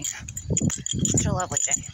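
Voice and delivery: slow, breathy, dreamy murmur. Acted. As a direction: sigh it out slowly like a daydream. Repeats the day remark differently.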